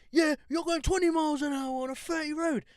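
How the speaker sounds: high-pitched mock road rage; imitated irate driver. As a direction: mouth off like an impatient driver. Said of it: "he's mouthing off".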